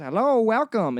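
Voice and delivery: door chime voice. Retold or imitated. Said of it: "then it goes".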